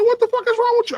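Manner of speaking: very high-pitched exasperated question; squeaky mock alarm; retold alarmed demand. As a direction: act out demanding answers from a friend. Retold alarm at distraught friend.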